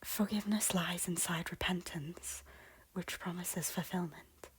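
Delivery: soft, hushed reassurance; gentle appeal. Acted. Lady offering her lord forgiveness through repentance, soft and hushed. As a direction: offer it softly, almost whispered.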